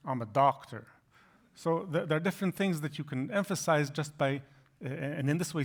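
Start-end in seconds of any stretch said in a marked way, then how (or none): 0.1-0.9 "doctor" pushed a bit louder as the contrast; stress on doctor. Shown as a demonstration. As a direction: lean on "doctor", not nurse. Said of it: "you have to emphasize something".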